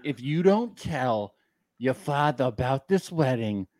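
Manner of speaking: put-on slow, slurring drunk rant; getting drunker. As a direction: drunk John going on and on. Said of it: "Your impression of John gets drunker and drunker every second".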